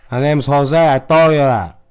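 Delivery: put-on heavy Chicano accent, pushing harder; insistent caller in a thick put-on accent; put-on Latino accent. Prank caller demanding the manager, in heavy accent. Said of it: "too popular of a fucking accent".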